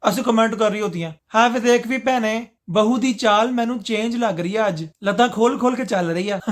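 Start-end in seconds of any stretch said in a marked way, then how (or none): 1.3-6.4 gossiping auntie. Acted. Aunties remarking on the new bride, teasing gossip. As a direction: gossip teasingly like a meddling mother-in-law.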